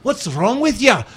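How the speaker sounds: high, slow mock British accent; Christian Bale. Host imitating actor's accent slipping, high drawn-out British voice. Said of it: "sounds a little bit like Christian Bale".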